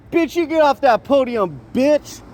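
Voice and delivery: high-pitched mock yell at a rival; over-the-top taunting voice, pitched high; acted yelling. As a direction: ham it up like a trash-talking heckler. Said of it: "let me do one more piece of acting".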